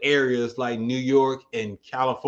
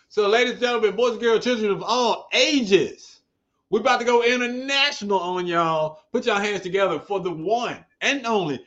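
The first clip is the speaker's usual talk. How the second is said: ringmaster; 5 semitones higher than usual. Acted. Hypes guest intro like ringmaster.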